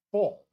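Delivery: full, punched high and loud after a pause; stress on full. Real, not acted. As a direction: hang on the beat, then hit full. Place packed, emphatic pause.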